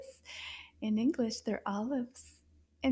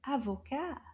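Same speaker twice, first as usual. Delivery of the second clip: Avocat quicker, syllables run together; a little faster; 5 dB quieter than usual. Shown as a demonstration. Teacher speeding up for children, Avocat quick and light. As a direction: say Avocat briskly as one word. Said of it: "maybe a little bit faster".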